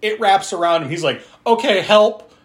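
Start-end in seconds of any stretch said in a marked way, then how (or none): 1.5-2.3 high, loud mock plea for help. Retold character calling for help.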